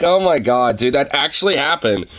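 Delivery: high-pitched disbelief; amazed. Real, not acted. Streamer learning McCarthy was ousted, amazed. Reacts to surprising news.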